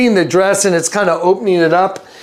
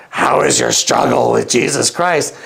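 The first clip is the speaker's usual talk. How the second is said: low eerie voice; 6 semitones lower than usual. Retold or imitated. Strange woman repeating question.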